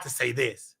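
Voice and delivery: breathy whispered aside; real whisper. Real, not acted. Confiding to the other guest on record, whispering.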